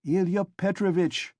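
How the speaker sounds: the clerk warning the officer, "Ilya Petrovitch" pressed hard; said significantly. Acted. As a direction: lean on "Ilya Petrovitch" to signal him to stop. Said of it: "the head clerk repeated significantly".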